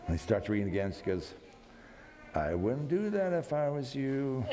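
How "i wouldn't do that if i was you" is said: slow, knowing wife with a laugh; teasing warning. Retold or imitated. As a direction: warn him lightly, half laughing. Wife warns him teasingly.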